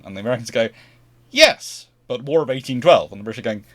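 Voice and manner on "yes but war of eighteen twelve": mock stubborn insistence. Americans answering the British, mock stubborn. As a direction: hold the line comically.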